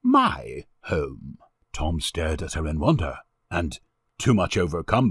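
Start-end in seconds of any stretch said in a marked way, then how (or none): 0.0-1.4 low, gentle reassurance. A narrator's reading. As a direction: offer it tenderly, pitched low. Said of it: "said the lady gently".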